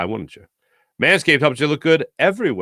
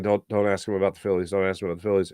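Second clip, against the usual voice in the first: inner voice; 7 semitones lower, 5 dB quieter, faster than usual. Retold or imitated. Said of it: "and I'm thinking".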